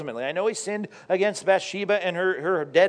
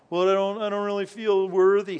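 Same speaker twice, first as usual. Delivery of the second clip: reluctant doubter; 2 semitones higher than usual. Retold or imitated. Doubter answering the Bible's promise of forgiveness, mock reluctance. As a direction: put on a hesitant, unworthy doubter. Voicing doubter, preacher says stop.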